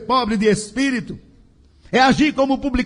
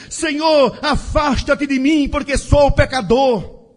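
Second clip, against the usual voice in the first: acted cry; 3 semitones higher than usual. Preacher quotes Peter begging the Lord, mild acted cry. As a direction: call it out urgently, short of a full shout. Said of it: "Pedro gritou".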